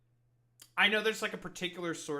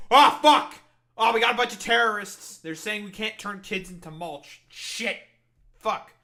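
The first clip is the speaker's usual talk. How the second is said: much higher and louder hammed-up alarm; mock panic; 5 semitones higher, 12 dB louder than usual. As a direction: play a fake-frightened official crying terrorists. Mocking government's fake panic.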